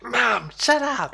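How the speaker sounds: high, loud, drawn-out mock protest; hammed-up mortified yell; embarrassed shout. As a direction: wail it at an embarrassing mother. Echoes embarrassed child's retort to mother.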